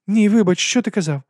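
high, hearty aristocratic lady; lady's voice. A narrator's reading. Lady explains dragon stomachs to Vimes. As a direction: lift the voice for the lady.

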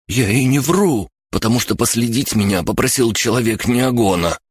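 high, whining self-defence; frightened protest. A narrator's reading. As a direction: plead innocence under threat. Captive protests under threat.

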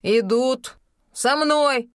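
very slow, loud, final command; tone brooking no objection. A narrator's reading. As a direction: stress мной, slow and final. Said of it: "повторила Рахель тоном, нетерпящим возражений".

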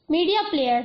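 ordinary delivery

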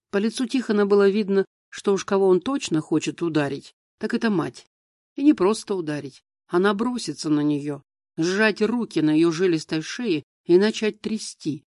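ordinary delivery, nothing marked

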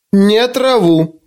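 "Не траву" slow and pointed, high; emphatic. Acted. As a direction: stress "траву", drawn out slowly. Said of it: "подчёркнуто сказал Коттер". ("Не траву" с нажимом, медленно)

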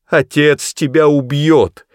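high, loud, slow threatening cry; shouting. A narrator's reading. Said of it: "крикнула миссис Броуди".

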